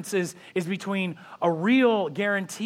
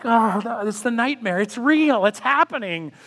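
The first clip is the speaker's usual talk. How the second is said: mock panic; 5 semitones higher, 6 dB louder than usual. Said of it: "and I'm just going like".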